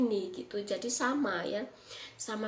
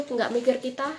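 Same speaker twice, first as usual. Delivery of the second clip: repeats it louder, like telling someone off; louder, insistent retelling; emphatic retort; 6 dB louder than usual. Retold or imitated. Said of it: "Saya bilang begitu".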